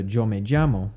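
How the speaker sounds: Yo said with a strong ch-like ll, tʃo me tʒamo; hard ch sound. Shown as a demonstration. Teacher showing the exaggerated ll sound not used. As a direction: push the ll toward ch. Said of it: "it's not all the way to a".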